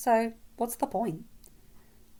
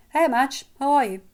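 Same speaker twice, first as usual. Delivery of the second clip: higher, louder upbeat hello; friendly greeting; 6 semitones higher, 10 dB louder than usual. A narrator's reading. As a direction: greet a classmate brightly and eagerly. Friendly reply to a classmate's greeting.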